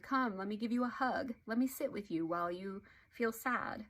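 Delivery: slightly lilting, tender sympathy; gentle validation. Shown as a demonstration. Parent validating a sad child about Bobby, gentle sympathy. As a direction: comfort a hurt child with empathy.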